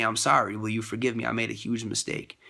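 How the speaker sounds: simple, earnest "I'm sorry"; sincere apology. Retold or imitated. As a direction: apologize plainly and mean it. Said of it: "and, and say".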